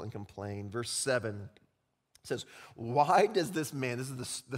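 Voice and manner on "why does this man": scribes' thoughts. Pretend. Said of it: "the thoughts of the scribes".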